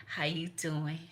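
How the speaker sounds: slow, quiet, lightly voiced old great-grandmother; a hint of a gentle old grandmother speaking slowly; great grandmama voicing. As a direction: ease into a slow, hushed elder greeting. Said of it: "great grandmama said".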